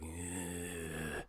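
low, very soft "ugh"; mimicked creepy noise; creepy drone. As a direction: hum out an eerie quiet groan. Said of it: "all creepy-eyed".

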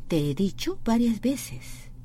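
very slow, word by word; slow demo. Shown as a demonstration. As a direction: spell it out slowly for learners.

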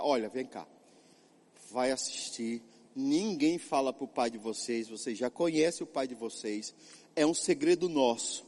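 soft, low secretive coaxing; a mother sneaking the children TV, soft and secretive; conspiratorial mother. Pretend. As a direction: hush the kids into a shared secret. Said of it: "Ela poderia fazer da seguinte forma".

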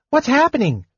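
high shouted question; shouting. A narrator's reading. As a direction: shout over the noise. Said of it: "Tas shouted".

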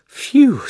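high, loud whoosh of relief; big exhaled phew; relieved "phew". A narrator's reading. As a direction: let out a long breath of relief. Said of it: "letting out a long breath of relief".

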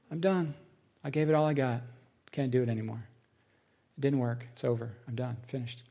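defeated. Retold or imitated. Preacher telling his colleague he is finished, fading and defeated. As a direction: fade away bit by bit as you give up.

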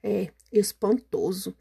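slow, stunned words; amazed. Acted. Gruffalo stunned by the mouse's power, slow amazement. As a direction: let it sink in slowly. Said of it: "respondeu abismado".

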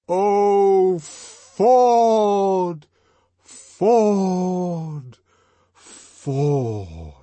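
long drawn-out calls stepping down from high and loud; diminishing, descending. A narrator's reading. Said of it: "it said diminishingly, and on a descending scale".

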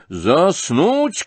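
high, offended exclamation; indignant shout. A narrator's reading. General told to go to sleep, indignant shout. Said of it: "крикнул генерал".

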